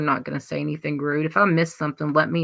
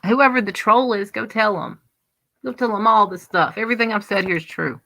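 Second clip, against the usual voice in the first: higher and louder, daring the troll; defiant taunt; 5 semitones higher, 4 dB louder than usual. Real, not acted. Streamer dares the troll to report her words, defiant taunt. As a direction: dare the troll to go tell him, fast at the end.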